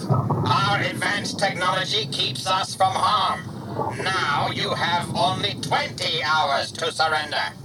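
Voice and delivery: cold superior alien announcement; booming alien voice. A narrator's reading. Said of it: "boomed the voice".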